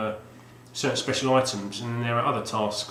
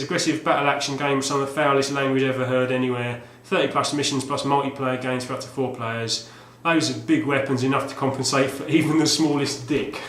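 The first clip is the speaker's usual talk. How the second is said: mock ad read; 2 semitones higher, 4 dB louder than usual. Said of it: "it might take a bit of acting".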